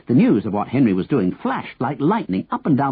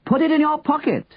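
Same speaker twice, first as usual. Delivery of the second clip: very high, held-back shout; 14 semitones higher than usual. A narrator's reading. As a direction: call high to someone in the street. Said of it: "Henry shouted".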